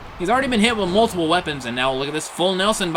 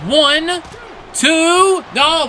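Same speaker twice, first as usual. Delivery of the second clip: excited count; 11 semitones higher, 6 dB louder, much slower than usual. Real, not acted. Counting along with the pin.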